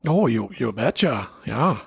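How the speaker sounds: put-on lightly done Minnesota accent; North Central American accent. Co-host giving the accent a shot, light North Central American accent. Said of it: "Hey, that was pretty good".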